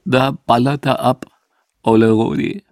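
mock tearful Berlin mourner, choked up. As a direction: play the grieving old bassist, voice thick with tears. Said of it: "sagte mit tränenerstickter Stimme". (gespielt tränenerstickt)

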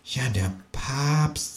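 slow, hushed kangaroo voice; quietly. A narrator's reading. Kangaroo conceding the Pope still lives, slow and quiet. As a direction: drop right down and draw it out. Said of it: "sagt das Känguru leise".

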